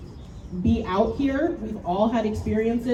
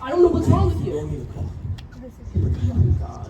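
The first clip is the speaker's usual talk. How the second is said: loud, frantic and higher, voice cracking with panic; panicked friend; 6 semitones higher, 5 dB louder than usual. Acted. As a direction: yell for help over a friend who won't wake. Staged crash, friend panics.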